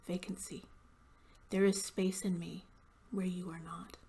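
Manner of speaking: deliberate, measured poetry recital; poem voice with weight on each image; poem reading. Acted. Reads own poem aloud.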